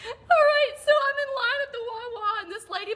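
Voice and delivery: laughing till she cries, voice catching; teary laughter. Real, not acted. Teller fighting laughter to tell the story, teary. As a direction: push through tears of laughter. Laughing so hard she's near tears.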